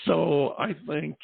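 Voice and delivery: slow, drawn-out newsman imitation. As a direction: drag out the newsman's answer. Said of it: "their answer is".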